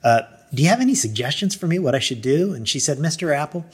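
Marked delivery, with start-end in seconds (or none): 0.5-2.5 mildly restrained, polite request. Retold or imitated. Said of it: "as politely as I could". 3.0-3.7 softer, calm address; retold calm clerk, gently composed. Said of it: "she said it very calmly".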